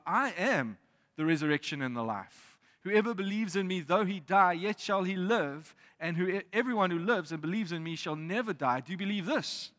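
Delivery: Jesus's words read with rising force; proclaimed words of Jesus. Acted. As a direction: proclaim it like a preacher.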